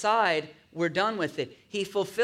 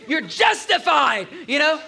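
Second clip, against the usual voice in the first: emphatic; 8 semitones higher, 7 dB louder than usual. Real, not acted. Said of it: "emphatic preaching".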